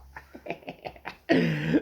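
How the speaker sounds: high chuckle after a joke; real chuckle. Real, not acted. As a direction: laugh at your own wisecrack. Laughs at his own joke.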